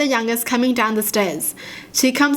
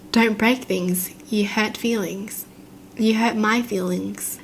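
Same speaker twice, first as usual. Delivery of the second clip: slow, softer, even robotic monotone; mock robot voice; 5 dB quieter, slower than usual. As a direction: quietly imitate a creepy robot child, slowly. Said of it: "Why does he sound like a robot?".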